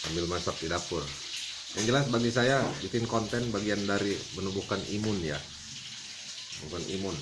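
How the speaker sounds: talking while smoking; cigarette in mouth. Real, not acted. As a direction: speak around a lit cigarette. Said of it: "saya sambil ngerokok nih". (bicara sambil merokok)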